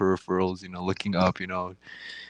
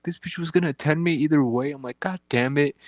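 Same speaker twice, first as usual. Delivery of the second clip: mock exasperation; 7 semitones higher, 3 dB louder than usual. Retold annoyed inner reaction.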